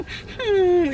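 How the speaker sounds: high whimpering hum; whiny mock whimper. Cuddled in bed as husband leaves, mock whimper. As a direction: whine like you don't want him to leave. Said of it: "le digo".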